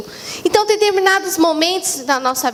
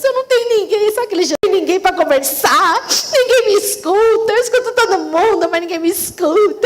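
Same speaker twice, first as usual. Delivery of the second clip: lonely lament; 2 semitones higher than usual. Retold or imitated. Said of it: "Eu falei".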